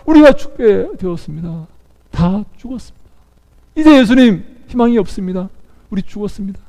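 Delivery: acted despair, fading at the ends; despairing plea. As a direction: give up hope as you plead. Disciples despair in the storm.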